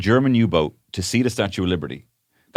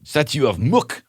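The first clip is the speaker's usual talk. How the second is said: put-on French accent. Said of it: "Why do we keep going French?".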